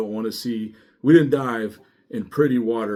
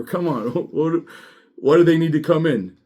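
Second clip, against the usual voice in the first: exasperated protest; 5 semitones higher, 4 dB louder than usual. Retold or imitated. Deputy protesting to his boss, exasperated and loud. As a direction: stretch out the disbelief, then blow up. Retold argument with the major.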